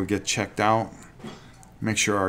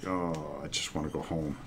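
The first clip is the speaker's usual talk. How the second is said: put-on whiny man child; 5 semitones lower, 8 dB quieter than usual. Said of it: "I sound like a big baby".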